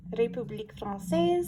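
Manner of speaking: République Française in a rolled-R French accent, not anglicized; French immersion accent. Real, not acted. Vlogger reading a French stamp label, in a French accent. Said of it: "pronounce it with my French immersion accent".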